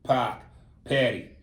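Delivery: Boston accent with dropped R's. Shown as a demonstration. Host demonstrating how Bostonians talk, Boston accent. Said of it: "When Bostonians go".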